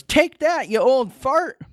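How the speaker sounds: high-pitched battle taunt; hammed-up high holler; mock yell. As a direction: yell it high like a feisty old man. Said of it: "And then Yoshi yells".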